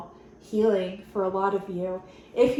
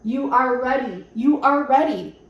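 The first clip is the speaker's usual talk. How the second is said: louder, firm repetition; emphatic; 6 dB louder than usual. Real, not acted. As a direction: tell them they're ready, with conviction. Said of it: "I wasn't even gonna film today".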